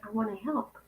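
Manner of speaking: soft whisper; whispered gentle promise of help. Retold or imitated. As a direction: breathe it out like a secret offer. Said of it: "said just like that".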